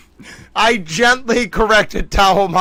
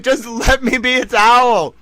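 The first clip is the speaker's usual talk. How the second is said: higher-pitched, playful protest; mock pleading; 4 semitones higher than usual. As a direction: plead with mom, half in jest. Retold plea to mom.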